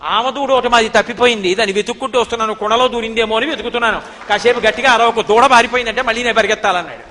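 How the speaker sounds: loud, insistent mock scolding; forceful retold indignation, pushed out without letting up; mock angry. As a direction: play a cross child bluffing loudly. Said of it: "కోపంగా కనుబొమ్మలు ముడేసి అన్నాడు".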